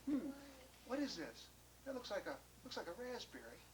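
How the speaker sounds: very soft, hesitant murmur; timid. Acted. John inspecting a strange berry, timid and soft. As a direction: wonder quietly to yourself, unsure. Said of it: "went over there kinda timidly and said".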